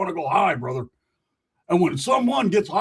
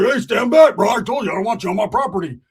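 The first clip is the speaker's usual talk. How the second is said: louder, higher barked order; shouted warning; 4 semitones higher, 7 dB louder than usual. Acted. Roach ordering Ricky off his property, shouting. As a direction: yell him off the property.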